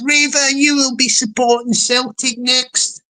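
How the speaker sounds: lightly imitated chat regular; a hint of a put-on voice; Stevie Boy. Reading a viewer's football tease aloud, lightly imitating him. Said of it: "That sounded like Stevie Boy".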